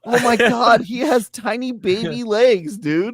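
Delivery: high, laughing disbelief; amused disbelief. Real, not acted. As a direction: marvel at it, laughing.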